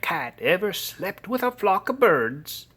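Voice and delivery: high, emphatic mother's scolding. A narrator's reading. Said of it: "she scolded".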